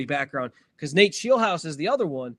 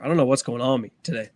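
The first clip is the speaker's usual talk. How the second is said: ordinary delivery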